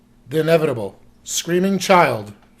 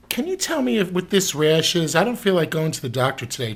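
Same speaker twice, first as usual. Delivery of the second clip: imitating client; 3 semitones higher than usual. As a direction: toss off the request like it's nothing, pitched up. Client woman asking about rash.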